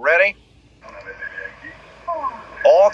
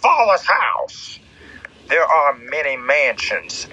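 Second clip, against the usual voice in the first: preaching. Acted. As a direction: lay it down like a sermon. Preaches a scripture.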